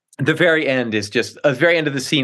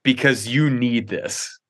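a hint of a patient wife placating; slowing, lightly voiced mild indulgence; humoring wife. Wife placating husband after staged rescue, slowing and indulgent.

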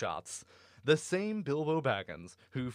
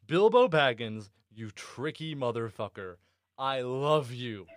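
excited outburst; 4 dB louder than usual. Real, not acted. Excited outburst at Bilbo's victory.

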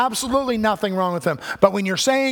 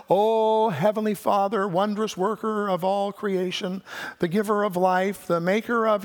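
lightly hammed-up ornate prayer; flowery mock prayer. Preacher mocking Peter's imagined ornate prayer, lightly grand. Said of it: "he didn't say any of that".

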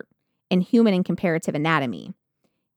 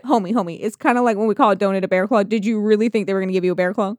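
casual bro voice; 3 dB louder, faster than usual. Retold or imitated. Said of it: "He's like".

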